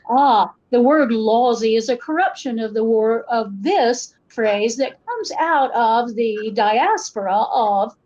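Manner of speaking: mock-explanatory standard American accent; code-switched standard accent. Speaker explains a phrase to outsiders, in a code-switched standard American accent. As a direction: explain it in careful, regular American English. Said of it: "code switching accent as a normal and regular".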